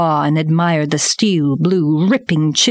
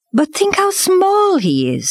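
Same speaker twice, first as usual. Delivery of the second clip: high, drawn-out plea for the cub; pleading panther; 13 semitones higher than usual. A narrator's reading.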